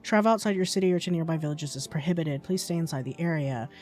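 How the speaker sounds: measured anchor voice; reading the game's news bulletin as an anchor. Acted. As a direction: read it like a TV bulletin. Reads news broadcast.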